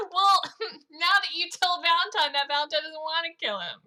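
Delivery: high, loud, giggly delivery; laughing. Real, not acted. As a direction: talk through real giggles. Laughing about the character's plan.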